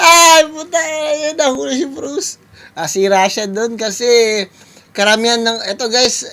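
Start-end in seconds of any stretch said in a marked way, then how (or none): 0.0-2.4 high, loud laughing reaction; cracking up, voice pitched way up; amused outburst. Real, not acted. Vlogger reacting to the rapper's punchline, high laughing outburst.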